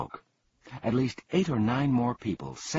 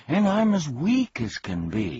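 gasped; 7 semitones higher, 4 dB louder than usual. Acted. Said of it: "he gasped".

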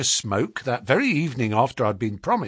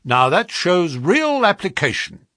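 raised, louder cry of approval; eager cry; 6 semitones higher, 5 dB louder than usual. A narrator's reading. Agent praises the clerk's diligence, crying out eagerly. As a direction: exclaim it like you're delighted. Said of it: "he cried".

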